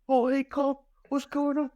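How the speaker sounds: high mock dad greeting; imitating dad answering the phone; dad's voice. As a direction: play the cheerful dad picking up. Dad answering prank call.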